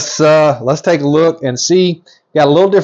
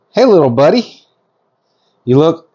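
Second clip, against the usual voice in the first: affectionate greeting; 4 semitones higher than usual. Real, not acted. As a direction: greet a tiny hatchling sweetly, pitched up. Greeting a newly hatched snake.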